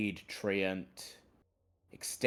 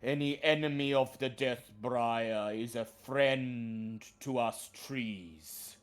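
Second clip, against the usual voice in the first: treant voice; 3 semitones higher than usual. Acted. Treant speaks to party.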